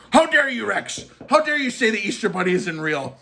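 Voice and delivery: high, indignant how-dare-you, easing down; mock outrage. A churchgoer scolds Rex over the Easter Bunny, mock outraged. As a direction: play a scandalised churchgoer scolding.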